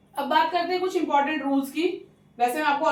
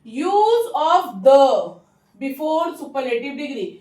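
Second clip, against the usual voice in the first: slow heading read; much slower than usual. Shown as a demonstration. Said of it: "teacher reads a rule heading".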